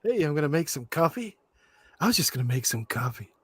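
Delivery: a hint of a smooth German seducer; imitating Werner. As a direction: sweet-talk him in a mock German voice. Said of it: "It's the way he says".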